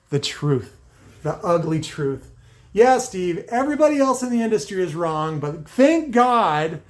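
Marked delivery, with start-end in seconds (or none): 2.7-6.8 dry mock praise; sarcastic thanks, slowing on thank God. Real, not acted. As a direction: say it like you mean the opposite. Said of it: "I'm being sarcastic".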